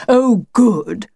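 mildly pleased wolf; approving. Acted. The wolf hears of Lucy's London trip, mildly approving. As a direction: approve with a touch of relish. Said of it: "said two fifteen approvingly".

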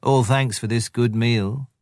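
slow, smacking jackal voice; jackal licking lips. Acted. Tabaqui the jackal thanking the wolves with relish. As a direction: savour the meal slyly. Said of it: "he said, licking his lips".

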